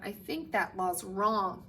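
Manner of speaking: put-on soft, timid little girl; girl timidly objecting to the clerk; small voice. A narrator's reading. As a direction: say it hesitantly, barely heard. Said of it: "her second grade voice didn't sound very strong".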